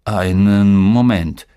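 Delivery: slow, drawn-out stunned father; halting disbelief, heavily drawn out; stammering. A narrator's reading. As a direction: stretch the words out as if stunned. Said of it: "stammelte er".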